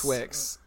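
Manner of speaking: Smithwicks said as written, SMITH-wiks; habitual mispronunciation. Shown as a demonstration. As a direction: sound both the "th" and "w" in "Smithwicks". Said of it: "I always have said".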